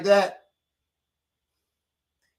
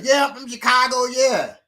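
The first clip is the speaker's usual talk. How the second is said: 1 eager mock reply; 9 semitones higher, 4 dB louder than usual. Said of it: "I was not gonna be like".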